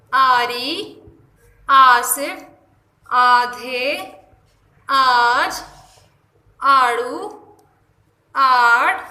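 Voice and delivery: each word once, with a long clear opening aa; slow reading drill. Shown as a demonstration. Teacher rereading the word list for students. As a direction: read the list again, one clear word at a time. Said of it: "دوبارہ سے پڑھیں گے".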